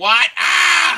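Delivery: shrill, loud startled scream. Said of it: "his mother screamed during that".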